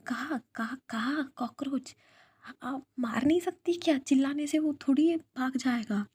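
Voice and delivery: high, loud frightened squeal; scared squeal. A narrator's reading. Tanu jumps into Viya's lap, shrieking about the cockroach. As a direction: panic over a cockroach, voice up high. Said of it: "वो ना डरते, डरते".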